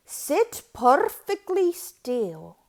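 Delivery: loud, firm order; stern command. A narrator's reading. Strict teacher ordering the kids, loud. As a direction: snap the class to attention.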